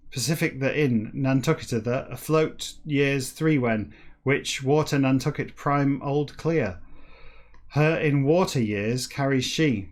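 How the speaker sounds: slow, deliberate book reading; declaimed reading. Acted. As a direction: declaim each word of jumbled text with weight. Reads jumbled book text aloud.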